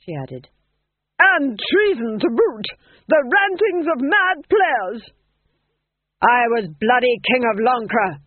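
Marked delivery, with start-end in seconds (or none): 1.2-5.0 high, slow haughty denial; cold duchess. Acted. Duchess denying. 6.2-8.2 shout. Acted. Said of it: "shouted Tom John".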